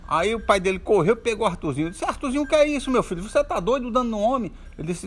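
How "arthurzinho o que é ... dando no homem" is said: scolding father. Acted. Father catching his son hitting a man, high scolding. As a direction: tell the boy off in alarm.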